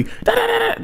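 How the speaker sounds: very high, rapid mock babble; mock Latina chatter. Vlogger mimicking how Latinas on the show talk, very high mock babble. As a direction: squeal out nonsense syllables in a caricature. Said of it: "a rapper talks like that".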